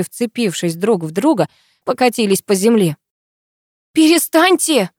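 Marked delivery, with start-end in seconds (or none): 3.9-4.9 high desperate shout; frantic scream; wailing yell. A narrator's reading. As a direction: wail at them to stop. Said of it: "опять завопила я".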